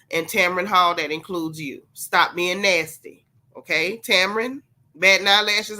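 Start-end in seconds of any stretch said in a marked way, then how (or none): 0.1-4.0 Sunday school teacher. Shown as a demonstration. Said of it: "in his best Sunday school teacher voice".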